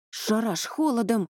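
plain reading voice

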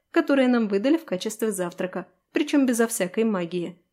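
a touch of irritation; lightly cross retort; angry. Acted. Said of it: "сердито отозвалась я".

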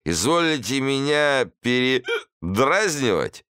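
put-on slow, high offended drunk; drunk hussar. A narrator's reading. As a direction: take offence like a tipsy hussar.

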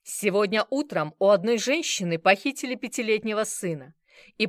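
loud, hard ultimatum, slowing on key lines. Acted. Bazarov giving the bar two minutes, loud threat. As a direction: lay down the terms with menace.

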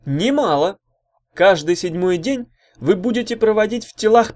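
loud, high huckster's pitch; fiery orator working the room; rousing rabble-rouser. Acted. Orator tempts crowd with pleasures.

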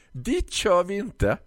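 high, slow triumphant refusal; gloating florist. Acted. Florist gloatingly refuses delivery to the customer. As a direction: savour the no.

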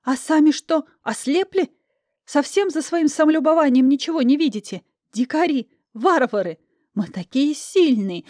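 high furious rant at the men. Acted. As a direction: tear into them, spitting contempt. Heroine rants at the men.

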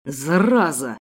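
low growl, far rougher voice; growled curse. A narrator's reading. Kidnapper growling at the struggling girl, low snarl. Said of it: "прорычал он".

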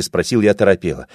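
usual speaking voice

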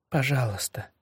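pleading. Acted. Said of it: "взмолилась Ария".

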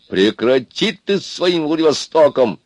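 high-pitched, drawn-out rebuke; scolding cry. A narrator's reading. Лысый cuts off the simple man, scolding. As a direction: snap at him to drop it. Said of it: "прикрикнул на него Лысый".

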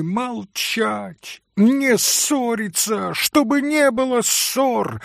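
high, commanding outburst; imperious shout. Acted. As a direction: order them to stop quarrelling. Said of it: "крикнула повелительно Грушенька".

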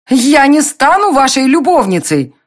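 high, loud furious cry; angry shout. A narrator's reading. Heroine refuses to be Darren's mistress, angry shout. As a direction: hurl it at him in outrage. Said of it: "закричала гневно".

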